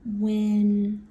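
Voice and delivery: stretched words with very long pauses; slow dictation. Real, not acted. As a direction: speak at the pace of handwriting. Writing the sentence while saying it.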